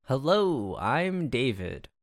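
announcer voice. Pretend. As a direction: boom it like a show announcer. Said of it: "what's that announcer voice".

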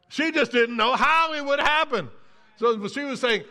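ordinary talk

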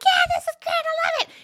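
high-pitched excited imitation; thrilled kid. Child answering a parent's check, high and thrilled. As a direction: gush it like a delighted child.

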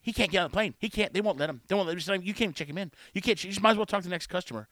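mock yappy interjections, one after another; lightly mimicked yappy nagging; yappy barking. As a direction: imitate a bystander yapping away in short bursts. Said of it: "barking like a little yappy dog".

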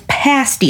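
"pasty" with a short a, as in "past"; local pronunciation. Shown as a demonstration. Telling a restaurant customer the name, short-a "pasty". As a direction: say "pasty" as PASS-tee. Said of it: "That's how it's pronounced".

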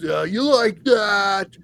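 slow, drawn-out mock taunt; Kirk Cousins. Host mimicking Vikings quarterback's catchphrase, mock taunt. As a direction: lightly imitate a quarterback's drawn-out boast. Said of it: "Kirk Cousins".

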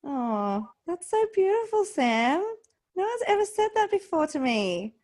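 moved to tears by her guest's answer; teary and moved. Real, not acted. Host tearing up at Sam's words about breathing. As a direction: voice lifted high and wobbling, close to tears. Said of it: "you're making me cry".

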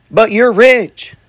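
insistent protest. Retold or imitated. Retelling a challenge to his rich buddy, slow and insistent.

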